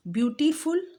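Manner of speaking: ब्यूटीफुल said with the lips moving on each part, rising at the end; teacher shows ब्यूटीफुल syllable by syllable; syllables shown. Shown as a demonstration. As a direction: show the parts of ब्यूटीफुल clearly. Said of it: "देखिए मेरे lips ऊपर नीचे होंगे".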